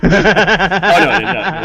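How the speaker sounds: loud laughing protest. Real, not acted. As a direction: laugh out a denial. GM laughs at joke.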